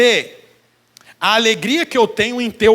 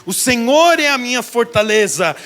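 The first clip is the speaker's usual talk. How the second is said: psalm declaration. Acted.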